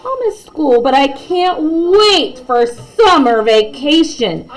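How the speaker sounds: lightly voiced student, slow on the end; kid voice. Josh telling classmates about summer, lightly voiced child. Child character quoted in story.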